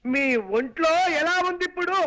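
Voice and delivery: loud repeated question. Acted. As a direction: say it up so a deaf old lady hears. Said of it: "అంత గట్టిగా అరవకు నాయనా". (గట్టిగా అరిచి అడగడం)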